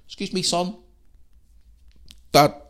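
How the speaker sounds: a hint of an elderly shopper asking; old customer voice. Older shopper asking the shop assistant, lightly voiced. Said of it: "I'm gonna put a voice on here".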